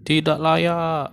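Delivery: sneering netizen, the last words high and very slow; mocking netizen. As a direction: drag out "Tidak layak" like a scornful commenter. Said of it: "banyak netizen yang bilang". (nada netizen yang mencibir, akhir kalimat tinggi dan sangat lambat)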